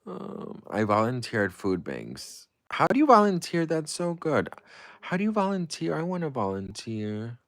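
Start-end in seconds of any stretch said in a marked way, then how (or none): 2.7-7.4 much higher, louder gush; excited. Real, not acted. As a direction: squeal with delight. Excited gushing question to viewer.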